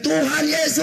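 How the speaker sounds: high reenacted cry of joy; teriakan. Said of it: "Saya teriak". (berseru dengan nada tinggi)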